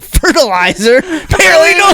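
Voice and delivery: mock surprise. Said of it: "I'm like".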